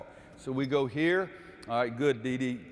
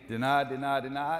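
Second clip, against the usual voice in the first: mock defender yelling deny to teammates; called-out defensive call. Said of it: "Cavante's saying".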